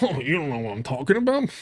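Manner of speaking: mock know-it-all quote; mocking imitation. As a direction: mimic the other debater mockingly. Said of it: "Because, look, it immediately goes".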